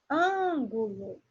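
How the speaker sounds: Ângulo very slow, ÂN stretched out; stress on ÂN. Shown as a demonstration. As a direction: lean long on the first syllable of Ângulo. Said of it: "an é a sílaba mais forte". (Ângulo bem lento, alongando a sílaba ÂN)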